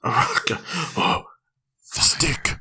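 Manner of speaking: lightly voiced grunting caveman. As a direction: play a dim caveman finding things. Acting out a caveman discovering ball.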